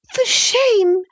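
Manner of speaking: high, indignant outcry; FOR shame hurled out high with the stress on FOR; angry cry. Acted. Isabella crying out at Catherine in outrage. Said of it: "she repeated angrily".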